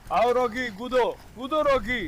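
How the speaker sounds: high, distant calling to a pet; eager coaxing call. Real, not acted. Owner urging Rocky to jump in, eager high call.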